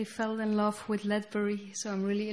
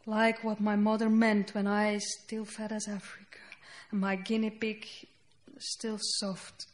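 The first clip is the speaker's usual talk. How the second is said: poem reading. Acted. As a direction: let each line land, then pause. Reads her poem aloud.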